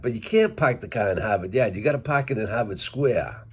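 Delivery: quick Massachusetts accent with the Rs dropped; Worcester accent. Shown as a demonstration. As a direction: rattle it off, Boston style, "park" said as pahk. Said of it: "more from Worcester".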